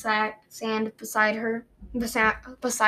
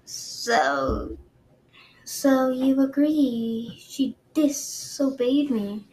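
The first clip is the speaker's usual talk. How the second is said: slow menacing queen; 2 semitones higher, much slower than usual. Acted.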